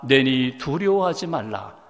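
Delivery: lightly voiced Jesus, slow and low; a hint of solemn, quiet reassurance; Jesus speaking. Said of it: "그리고 말씀하십니다".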